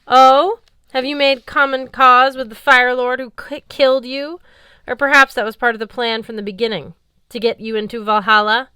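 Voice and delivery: high, loud, scornful questioning; angry accusation. Acted. Valkyrie captain loudly accusing Magnus of treason. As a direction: hurl the accusation at him.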